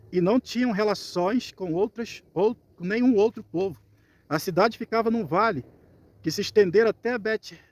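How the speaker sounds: deliberate scripture narration for listeners; scripture reading. Acted. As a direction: read the passage out with measured phrasing. Reads scripture aloud.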